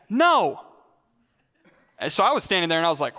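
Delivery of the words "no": short, higher mock yell; retold defiant yell. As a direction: yell back like a defiant teenager. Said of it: "he just yelled back".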